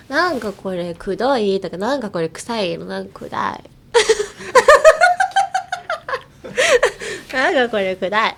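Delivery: lightly cutesy couple talk; 軽い猫なで声; cutesy coaxing voice. Shown as a demonstration. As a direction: coo it like a sweet-talking girlfriend. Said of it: "猫なで声ですよ".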